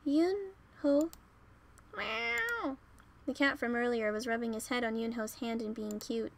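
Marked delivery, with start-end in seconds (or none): 0.1-1.1 trembling. Acted. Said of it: "I was trembling while walking towards him". 2.0-2.8 high drawn-out meow; cat meow. Acted. Cat rubbing against Yunho's hand, high meow.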